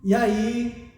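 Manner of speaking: usual speaking voice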